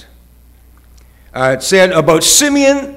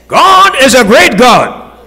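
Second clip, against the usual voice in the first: slow, louder declaration; proclaiming; 7 semitones higher, 6 dB louder, slower than usual. Real, not acted. Preacher proclaiming to the church, slow and loud. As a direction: sound it out grandly.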